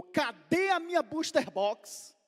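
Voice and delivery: put-on high, loud, slow child's cry of protest; upset child. Son at the tree, demanding his gift: upset high child voice.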